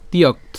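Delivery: "তিয়ক্ত" cut off on the t; partial-word pronunciation. Shown as a demonstration. Teacher builds the word up to t, careful "তিয়ক্ত". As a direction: say "তিয়ক্ত" with a y glide, stopping at t. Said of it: "ত পর্যন্ত আমরা উচ্চারণ করলাম".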